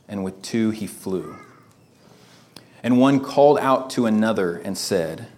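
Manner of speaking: slow, measured reading of scripture aloud. Shown as a demonstration. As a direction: read each line slowly to capture every thought. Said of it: "So reading through that again, trying to read it slowly".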